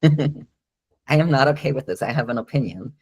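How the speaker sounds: playful, deliberate objection; protesting dog. Retold or imitated. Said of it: "protest kind of way".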